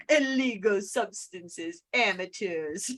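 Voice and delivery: slow, drawn-out attempt at a Moira Rose type transatlantic accent; a rough try at that invented transatlantic accent, slowed right down. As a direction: stretch the words in a faux transatlantic accent, a loose imitation. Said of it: "I can't do her accent justice".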